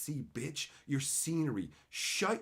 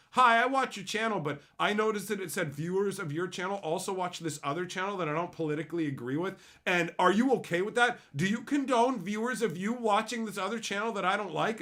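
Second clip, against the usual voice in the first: imitating a pestering fan, pitched up; lightly voiced earnest complainer, louder at the questions; mock concerned viewer; 3 semitones higher, 4 dB louder than usual. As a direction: parody of a fussy messager.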